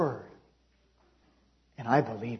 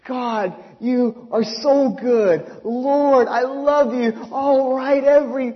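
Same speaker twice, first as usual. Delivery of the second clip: slow, drawn-out loud praising; joyful, stretched-out worship; fervent praise; 4 semitones higher, 3 dB louder, slower than usual. Retold or imitated. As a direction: pour out thanks to God. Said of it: "You never heard such praises".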